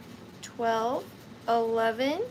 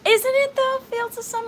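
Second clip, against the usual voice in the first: excited aside; 11 semitones higher, 6 dB louder than usual. Real, not acted. Reacting to music playing.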